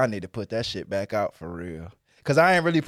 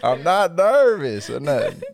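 laughing; 3 semitones higher, 7 dB louder than usual. Real, not acted. Laughing off the teasing.

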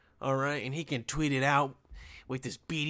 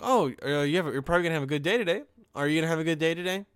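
sarcastic questions; 3 semitones higher, much faster than usual. Retold or imitated. Asking a spa client about their day, sarcastic. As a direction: rattle off fake-polite sarcastic questions. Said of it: "super sarcastic questions".

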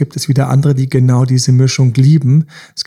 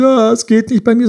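high, whiny self-pity; mock whining; 9 semitones higher than usual. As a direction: play the defeated moaner, half-joking. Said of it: "dann sage ich nicht". (hohes, gespieltes Jammern)

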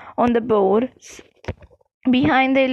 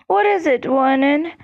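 frightened; 2 semitones higher than usual. Acted. Petunia terrified at the fireplace.

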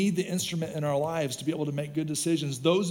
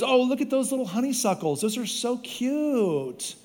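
wife gushing; 4 semitones higher than usual. Retold or imitated. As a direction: lightly mimic the wife cooing over flowers. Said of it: "and my wife goes".

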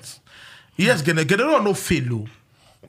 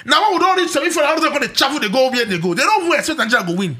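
fast heated rant; 6 semitones higher, faster than usual. Real, not acted. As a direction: rush it out, high and pressing. Heated debate over local coaches.

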